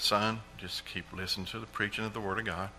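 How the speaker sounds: put-on a father calmly steering his worried boy. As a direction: quietly reassure your son. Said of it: "And Dad just calmly said".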